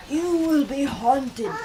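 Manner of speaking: slow, solemn warning; ghost's warning. Acted. Marley's ghost warning Scrooge, slow and solemn. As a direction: intone it like a ghost. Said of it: "resumed the ghost".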